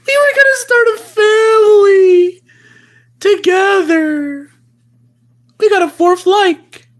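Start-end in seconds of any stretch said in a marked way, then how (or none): 0.1-4.5 hammed-up teary shout, fast; a touch of fake crying; mock wailing. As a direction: wail it like a jilted lover. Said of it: "repeated lament".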